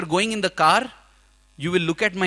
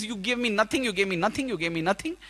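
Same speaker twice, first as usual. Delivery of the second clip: fading sob; 5 dB quieter than usual. Retold or imitated. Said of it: "I began to cry".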